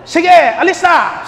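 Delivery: high, loud, slow send-off; shooing the bus away. Retold or imitated. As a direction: shout at the bus to leave. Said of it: "Sabi ko sa bus". (pasigaw na pinapaalis ang bus)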